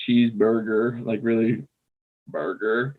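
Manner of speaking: "burger" picked out on its own; deliberate emphasis on "burger"; extra emphasis. Shown as a demonstration. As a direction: lean on "burger" in "cheeseburger". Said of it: "that extra emphasis is".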